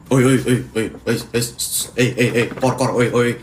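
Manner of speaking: repeated rude oi calls in an odd voice; rude catcall. Retold or imitated. A rude stranger calling Kori, mock rude catcall. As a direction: call out oi like summoning an animal. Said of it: "dia manggilnya tuh kayak gini".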